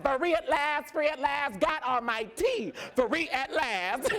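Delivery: high, exultant declaration; retold jubilation. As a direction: proclaim freedom, stretching out the last cry. Retells jubilant exit from mother's house.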